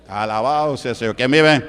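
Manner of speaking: loud call to the congregation; rally the crowd with a shout; praise shout. Real, not acted. Pastor rousing the church, loud call.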